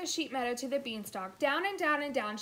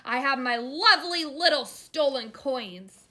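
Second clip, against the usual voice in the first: slow, loud giant voice; gloating giant; 4 semitones higher, 12 dB louder than usual. A narrator's reading. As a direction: savour each word greedily. Giant gloating over coins.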